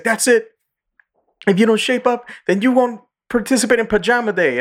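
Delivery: high mock stern threat; imitating the principal. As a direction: scold in a squeaky cartoon voice. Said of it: "He's like".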